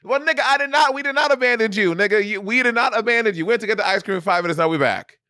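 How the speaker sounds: high, exasperated outburst; exasperated shouting. Retold or imitated. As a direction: let the frustration burst out. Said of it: "I'm like".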